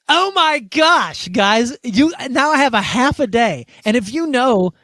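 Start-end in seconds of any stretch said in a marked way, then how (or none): 0.1-3.7 much higher, drawn-out "Oh my gosh", slow, in mock alarm; retold panic. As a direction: replay the shock of learning you must play bass. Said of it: "And I was like".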